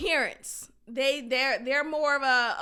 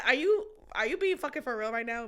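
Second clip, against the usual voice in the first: mock retort; 2 semitones lower, 3 dB quieter, faster than usual. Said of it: "she might as well said".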